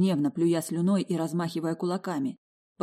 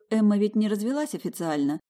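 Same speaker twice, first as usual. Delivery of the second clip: usual speaking voice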